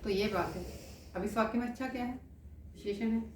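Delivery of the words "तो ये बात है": surprised realisation. Shown as a demonstration. Teacher demonstrates an exclamation of sudden understanding. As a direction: say "अच्छा" with a lifted, knowing surprise. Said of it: "जैसे मैं आपको उदाहरण बताती हूँ".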